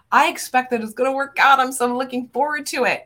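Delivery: fast, bright, eager anticipation; expectant excitement. Shown as a demonstration. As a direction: sound like you can't wait. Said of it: "You can hear it in the inflection in my voice".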